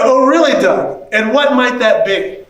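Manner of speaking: mock-sweet, needling question; irritated sarcasm. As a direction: pretend interest, dripping with annoyance. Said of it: "and now I'm irritated".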